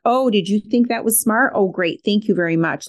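snappy mock-thanks, lightly sarcastic; a mild sarcastic snap at her son; sarcastic snippet. Shown as a demonstration. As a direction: snap back at him with fake gratitude. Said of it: "sarcastic sort of snippets".

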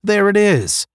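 very high, loud exclamation; gasped amazement. A narrator's reading. Moran sighting the legendary star, gasping. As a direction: exclaim at the discovery. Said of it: "Moran gasped".

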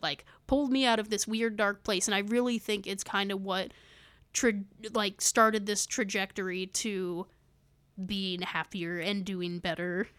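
slightly shaky voice from being sick; wavering voice. Real, not acted. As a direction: let the voice waver a little. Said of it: "it sounds like my voice is, like, wavering a little bit".

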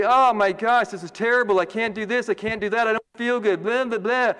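lightly hammed-up complaint; mock whining. Preacher imitating someone sick moaning about it, mild mock whine. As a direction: whine it half-heartedly, tailing into blahs. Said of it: "cry and whine and say".

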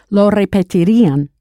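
lo repetirían with a clear stressed ending. Shown as a demonstration. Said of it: "Be sure to stress that ending".

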